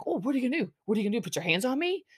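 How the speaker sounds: lightly voiced swaggering dare; taunting tough guy. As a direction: needle him like a would-be tough guy. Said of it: "and he's like".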